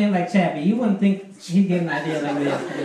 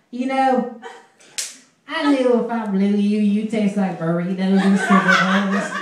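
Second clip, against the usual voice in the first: put-on southern accent. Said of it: "with this cutest southern, little southern accent".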